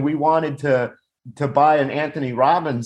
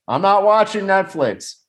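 higher-pitched imitated proclamation; mock declaration; 6 semitones higher than usual. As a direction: announce it like a mock-indignant viewer. Mock announcement of a viewer.

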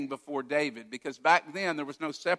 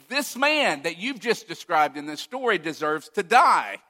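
raised angry voice; 5 dB louder than usual. Retold or imitated. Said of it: "he starts to raise his voice".

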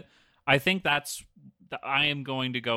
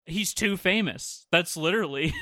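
ordinary talk, nothing marked

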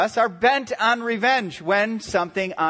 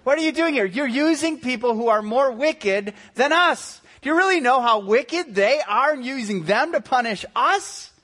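higher and louder, exasperated outburst with a laugh; outraged prophet questioning God, higher and louder; mock indignant Habakkuk; 6 semitones higher, 3 dB louder than usual. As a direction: protest to God in hammed-up disbelief. Habakkuk protesting God's plan.

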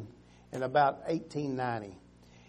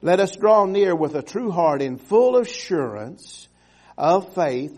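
loud, ringing reading of the verse; forceful scripture reading; 3 semitones higher, 9 dB louder than usual. Acted. Preacher rereading the verse to the congregation, loud. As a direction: proclaim the verse to the room.

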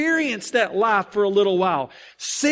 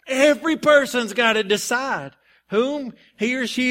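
preaching; 3 semitones higher than usual. Acted. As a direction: build into the sermon with fire. Preaching builds up.

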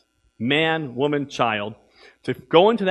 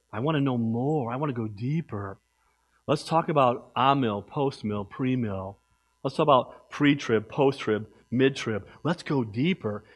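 low, soft mocking voice of a know-it-all; mock the guys who want deep talk; mocking whiny churchgoer; 3 semitones lower, 4 dB quieter than usual. Pastor mimics churchgoers begging to go deeper, low mocking. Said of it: "I've heard them say".

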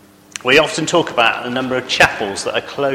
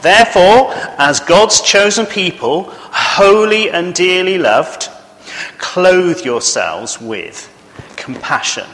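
louder, slower, solemn Bible reading; scripture reading; 2 semitones higher, 5 dB louder, slower than usual. Acted. Preacher reading Colossians to the congregation, solemn and slow. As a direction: proclaim the verses with weight.

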